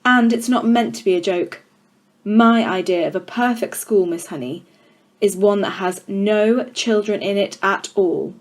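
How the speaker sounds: a hint of a contemptuous headmistress; stern headmistress. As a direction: loom over the class, mildly menacing. Trunchbull continues to Miss Honey.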